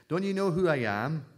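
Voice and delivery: donkey demanding recognition from the crowd, indignant shout. Acted. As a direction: bristle like a snubbed donkey. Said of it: "he said crossly".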